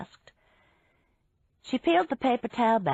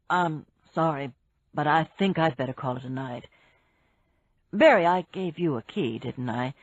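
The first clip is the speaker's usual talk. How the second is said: lightly voiced man; 4 semitones lower than usual. Jason voiced by narrator.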